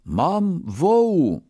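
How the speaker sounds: slow, high-pitched declaration; momentous announcement. A narrator's reading. Brahmin starts his wager with the merchant, momentous. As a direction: announce it slowly, as big news. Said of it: "wziął głęboki oddech i rzekł".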